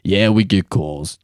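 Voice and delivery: slow mock Australian accent. Shown as a demonstration. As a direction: draw out the words in a put-on Australian accent. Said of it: "that's my Australian accent".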